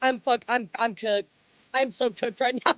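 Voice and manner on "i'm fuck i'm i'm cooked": crying. Real, not acted. Emotional thanks to chat, crying.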